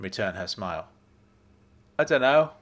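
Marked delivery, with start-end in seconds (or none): 2.0-2.5 casual. Acted. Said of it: "I said casually".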